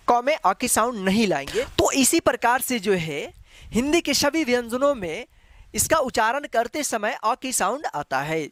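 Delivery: ordinary delivery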